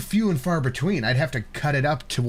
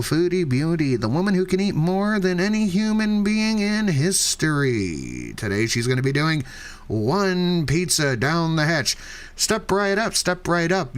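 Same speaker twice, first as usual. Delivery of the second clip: put-on old-timey carnival barker. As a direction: step right up barker pitch. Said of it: "Do it in old-timey voice".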